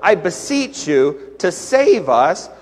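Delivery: loud Lord, then slow sorrowful plea; pleading. Retold or imitated. Pastor showing Hosanna's sadder meaning, slow plea. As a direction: sound it like a sad prayer. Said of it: "wouldn't that sound like a much sadder word".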